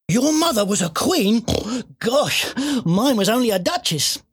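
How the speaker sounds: high-pitched, wide-eyed surprise; amazed piglet. A narrator's reading. Piglet hearing the cat's mother was a queen, amazed.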